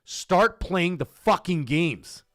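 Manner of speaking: spelling out a demand, swelling up on the last words; emphatic retort. Retold or imitated. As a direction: lay down the law word by word. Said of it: "I said".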